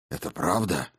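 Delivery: quiet husky question. Acted. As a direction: ask it hoarsely, low. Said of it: "хрипловато спросил Иван".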